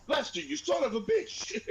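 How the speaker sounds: high shrieking mock scold; mock furious yell. Grandma finding the broken gravy bowl, high furious mock yell. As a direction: screech at your husband in fury. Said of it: "She's like".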